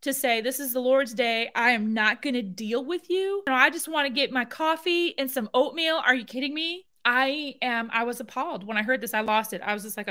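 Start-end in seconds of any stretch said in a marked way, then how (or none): 0.4-6.0 light mock of a smug officer; lightly imitating the officer's dismissive tone; mocking quote. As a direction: parody his excuse with contempt. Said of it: "He has the gall to say".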